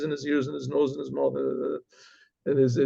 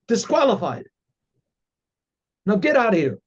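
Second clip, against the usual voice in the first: gruff dismissal; 4 semitones higher than usual. Retold or imitated. Dentist stamps and dismisses him.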